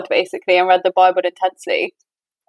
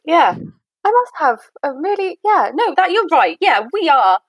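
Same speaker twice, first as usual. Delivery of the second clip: smug mock superiority; 5 semitones higher than usual. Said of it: "Imagine that was your rationale".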